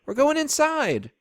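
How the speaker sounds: high-pitched call across the yard; hollered. A narrator's reading. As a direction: holler it over the rain. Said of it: "I hollered at him over the rain".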